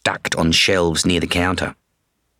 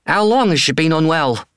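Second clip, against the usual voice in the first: much higher, concerned woman's voice; woman vet voice; 9 semitones higher than usual. Acted. Woman vet's voice.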